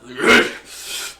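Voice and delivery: loud throaty creature growl; threatening growl. Acted. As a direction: snarl before making a threat. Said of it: "you can hear the Skiono in his voice".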